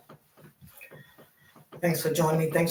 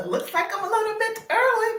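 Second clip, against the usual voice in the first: laughing, a high bright start. Real, not acted. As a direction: chuckle through the words. Laughs at arriving early.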